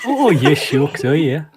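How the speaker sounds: put-on Canadian accent. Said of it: "Always shifting accents again".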